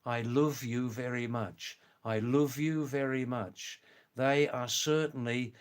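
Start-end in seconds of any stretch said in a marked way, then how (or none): 0.0-3.8 a light Scouse accent, love said as luv with an oo vowel. Shown as a demonstration. Showing viewers how Liverpool people talk, in a Scouse accent. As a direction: demo Scouse: "love" rounded toward "luuv". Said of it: "talking like this".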